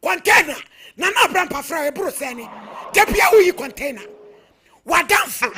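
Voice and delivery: loud, accusing shout; angry shouting. Real, not acted. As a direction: shout at him in anger. Heated argument over money.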